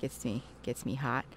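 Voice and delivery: low, mock sultry voice; sexy voice. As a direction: tease with a put-on sultry tone. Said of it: "This is my sexy voice".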